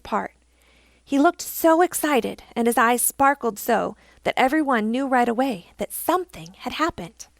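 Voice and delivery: lively, expressive storybook reading; storyteller's lilting delivery; story narration. A narrator's reading. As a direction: read it to children with animated emphasis. Reads a story to children.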